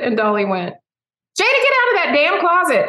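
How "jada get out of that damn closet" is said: high, loud hollered order; mock yell. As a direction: imitate an aunt calling her niece out of hiding. Aunt calls niece out of closet.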